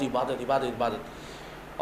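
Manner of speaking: slowing, dwindling drone for endless worship; trailing repetition. Retold or imitated. Teller depicts nothing but worship day after day, trailing repetition.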